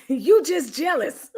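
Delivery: real laugh breaking into the words. Real, not acted. Host cracking up at a viewer's comment, laughing. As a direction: read it through a laugh.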